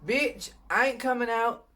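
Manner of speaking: high cheeky voice of the tooth; sassy tooth voice. Retold or imitated. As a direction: give the tooth a brassy high voice. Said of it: "It was like this to the dentist".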